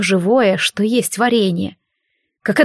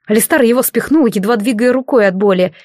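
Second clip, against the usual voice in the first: plain reading voice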